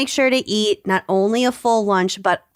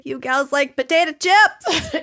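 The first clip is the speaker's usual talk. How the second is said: put-on Minnesotan accent; 6 semitones higher than usual. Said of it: "worst Minnesotan accents".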